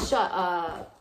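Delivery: surprised gasp. Real, not acted. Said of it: "finds old notebook".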